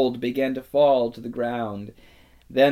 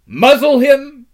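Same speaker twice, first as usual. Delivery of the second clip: loud, high barked order; harsh command; 12 semitones higher, 13 dB louder than usual. A narrator's reading. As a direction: snap the order at them. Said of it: "said the witch".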